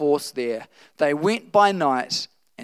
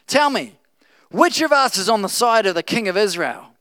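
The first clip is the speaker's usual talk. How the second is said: higher, louder demand from an angry king; mild demanding king; 6 semitones higher, 5 dB louder than usual. Acted. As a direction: demand an answer of the officers. King of Aram demands angrily.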